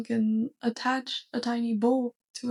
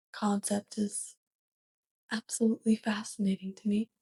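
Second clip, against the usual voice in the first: whisper; 4 dB quieter than usual. Acted. Alien whispers fascination about bedroom.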